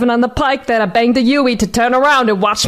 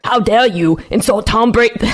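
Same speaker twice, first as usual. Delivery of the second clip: bad New England accent. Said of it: "really bad New England accent".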